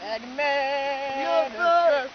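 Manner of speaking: impression of an aging French rock star. Shown as a demonstration. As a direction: drawl it like an aging French rocker. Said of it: "Johnny si tu veux".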